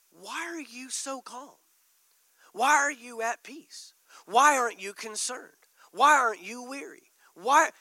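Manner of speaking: puzzled onlookers asking. Retold or imitated. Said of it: "they're gonna say".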